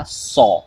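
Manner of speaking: "सॉ" with long aw; stretched aw. Shown as a demonstration. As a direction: hold the aw in saw. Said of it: "stretched ओ का sound". ("सॉ" में लंबा ओ)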